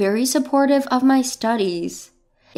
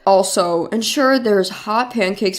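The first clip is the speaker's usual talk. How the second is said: a bossy husband listing his demands; a hint of an entitled man dictating his household rules; demanding husband; 4 semitones lower than usual. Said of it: "Leon is particular about details and won't allow any slack".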